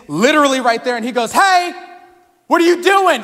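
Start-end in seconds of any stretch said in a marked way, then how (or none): 1.3-3.2 high, loud Aussie call-out; Aussie accent. Retold or imitated. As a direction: holler it like a mock Australian. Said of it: "he was an Aussie".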